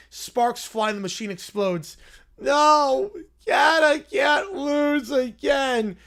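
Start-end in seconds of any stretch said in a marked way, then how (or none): 2.4-6.0 villain wail. Acted. Wailing at defeat.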